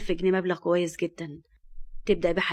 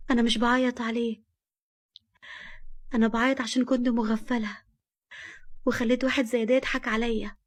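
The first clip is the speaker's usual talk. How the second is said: higher, upset and hurt; tearful; 4 semitones higher than usual. Acted. Nour tells Fahd why she is crying, tearful. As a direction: speak through hurt, close to tears. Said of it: "اللي كانت بتعيط".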